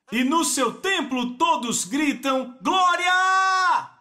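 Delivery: verse read slowly, then glória shouted high; building to a shout. Acted.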